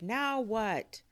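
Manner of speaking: high, loud exasperation; dismayed question. Acted. Boy asking after parking problem, high exasperated question. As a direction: demand it in dismay.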